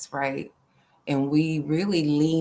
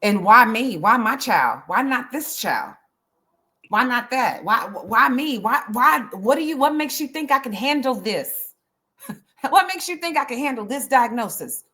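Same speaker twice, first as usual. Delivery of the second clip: anguished outcry; 5 semitones higher than usual. Real, not acted. I'm mad as hell.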